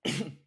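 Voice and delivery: rough cough to clear the throat; hacking to clear the throat; throat clearing after choking. Real, not acted. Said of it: "Choking on water here".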